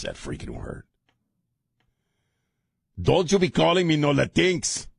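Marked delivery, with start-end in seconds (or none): 3.0-4.9 much higher, sassy scolding wife; hammed-up indignant wife; mock wife voice. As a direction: sass him like an offended wife. Host voices his annoyed wife.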